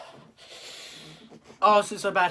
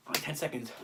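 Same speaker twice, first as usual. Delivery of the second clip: strained whisper; 5 semitones lower, 11 dB quieter than usual. Real, not acted. Counting down in pain.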